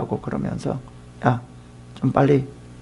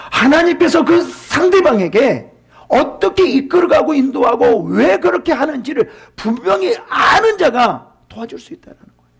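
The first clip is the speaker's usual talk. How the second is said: rising passionate cry; impassioned preaching; 10 semitones higher than usual. Real, not acted. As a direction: preach it with full fervor. Preacher peaks at full force.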